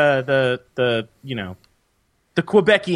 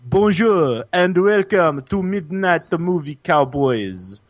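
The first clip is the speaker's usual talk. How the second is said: put-on French accent; 2 semitones higher than usual. Host restarts the show opening, put-on French accent. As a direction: start over in a showy mock French accent.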